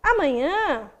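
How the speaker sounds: hesitant answer with pauses between phrases. Shown as a demonstration. Teacher demonstrating ellipsis for students, hesitant and unsure. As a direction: hold back, unsure, before committing to an answer. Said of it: "eu posso denotar hesitação".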